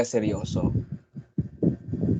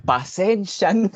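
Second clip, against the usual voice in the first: mock apology voice; 6 semitones higher, 4 dB louder than usual. Re-enacting the inside joke.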